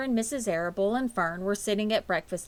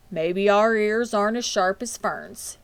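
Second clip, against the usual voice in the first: grinning; 2 semitones higher, 6 dB louder than usual. A narrator's reading. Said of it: "Mister Arable grinned".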